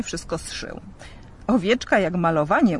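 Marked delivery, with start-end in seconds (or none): 1.5-2.8 louder, proud of his handiwork; a mild burst of delight; pleased. Acted. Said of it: "ucieszył się". (lekka radość z udanego dzieła)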